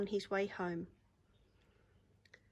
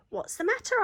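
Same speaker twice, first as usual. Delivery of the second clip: much higher, louder caring question; kind George asking; 13 semitones higher, 6 dB louder than usual. Acted. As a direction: ask gently but high and bright. George asks the squeaking mice.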